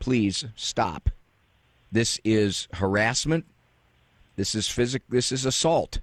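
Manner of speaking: normal talking voice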